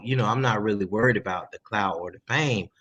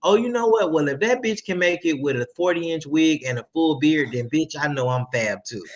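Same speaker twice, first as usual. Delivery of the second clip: pitched-up realization settling into self-assurance; sassy self-confidence; 4 semitones higher than usual. Retold or imitated. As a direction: mimic an artist deciding they measure up, starting high. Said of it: "that's giving them the confidence to be like".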